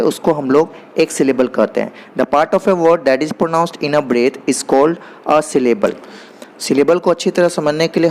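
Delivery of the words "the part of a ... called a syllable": English definition read out very slowly, word by word; slow dictation. Shown as a demonstration. Teacher dictating a definition to the class, very slow and deliberate. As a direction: spell it out slowly so students can write it down.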